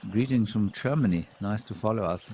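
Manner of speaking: playful, hammed-up German accent; bad German accent. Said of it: "my bad German accent".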